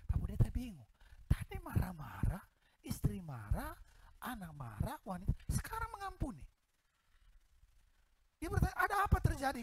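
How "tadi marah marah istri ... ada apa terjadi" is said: high, bewildered question; astonished. Retold or imitated. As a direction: ask in disbelief, pitched high. Pastor's astonishment retold. (heran dengan suara tinggi)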